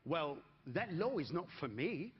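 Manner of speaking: slow, lightly voiced calm reply; a hint of unbothered calm, slowly; calmest voice. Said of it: "In the calmest voice".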